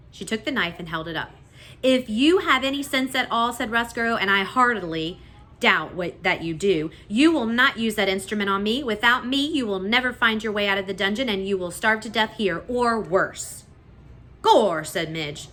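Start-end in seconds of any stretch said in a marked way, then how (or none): 1.8-13.6 lightly voiced rat, louder, threatening; menacing rat. A narrator's reading. 14.4-14.8 loud grunt. A narrator's reading. Midge grunts.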